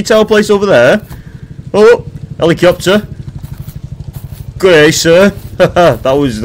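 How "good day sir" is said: lightly put-on Australian accent. Streamer joking to himself in game, mock Australian accent. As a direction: greet them like a mock Australian. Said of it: "that's me being Australian".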